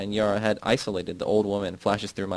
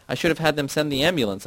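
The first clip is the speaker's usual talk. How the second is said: shout; 6 semitones higher than usual. A narrator's reading. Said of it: "I shout".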